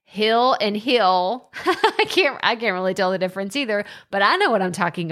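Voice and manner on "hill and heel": HILL and HILL said identically, slowly, like heel; slow Texan "Hill and hill", both words sounding the same; hill and heel alike. Shown as a demonstration. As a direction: stretch each "hill" until it passes for heel. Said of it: "can't tell the difference between that and H E E L".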